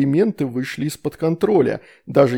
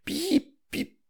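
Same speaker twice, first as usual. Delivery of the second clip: put-on 1 babyish stammer; 7 dB quieter than usual. A narrator's reading. Little girl tries the word.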